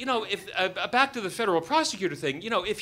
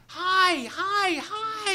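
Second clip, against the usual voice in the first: high, loud repeated calls; frantic shouted hails; 11 semitones higher, 7 dB louder, much slower than usual. Retold or imitated. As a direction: call out frantically across the water. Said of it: "now they're waving with both hands".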